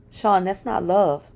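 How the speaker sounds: slow, mildly scared murmur; a touch of a frightened whimper. Retold or imitated. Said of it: "I was terrified as I whimpered".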